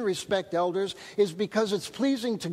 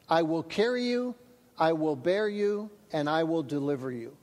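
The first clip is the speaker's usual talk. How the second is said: scripture reading; 2 semitones lower than usual. Acted. Reads Isaiah aloud.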